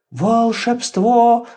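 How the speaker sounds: slow drawn-out wonder; amazed. Acted. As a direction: stretch it out in awe. Awed slow exclamation. (изумлённо, протяжно)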